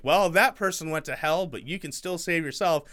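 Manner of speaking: preachy fundamentalist, overacted; hammy Christian fundamentalist sermon; over-the-top fundamentalist. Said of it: "You sound very over the top".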